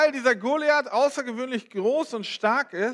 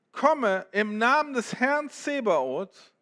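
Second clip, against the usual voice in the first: proclaimed cry; 2 semitones higher, slower than usual. Acted. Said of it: "David rief zurück".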